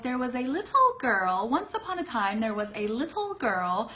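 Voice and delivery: lightly voiced fairy-tale reader, little with crisp T's; a hint of reading to children, every T in little sharp; mild mock storyteller voice; storybook reading. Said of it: "unless you're being like".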